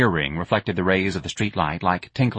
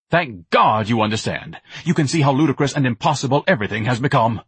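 pompous lovesick Ignatius; 4 semitones higher than usual. Acted. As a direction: ham it up like a grandiose suitor. Ignatius answers Myrna.

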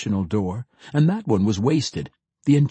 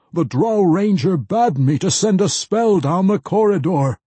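earnest mage; 8 semitones higher, 6 dB louder than usual. A narrator's reading. Mage explains his task.

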